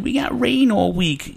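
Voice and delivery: high, drawn-out imitation whine; mock complaining. Imitating people griping about the weather, mock whine.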